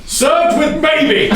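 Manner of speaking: high, loud and slow, bursting with laughter; gleeful laughing cry; laughing outburst. Real, not acted. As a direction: shout it through the giggles. Repeating a partner's absurd suggestion.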